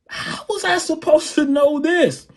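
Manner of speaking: very high, stretched-out mock wail; retold bewilderment. Drummer baffled at what was expected, retold high wail. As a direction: replay a helpless protest, way up high. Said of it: "And I'm like".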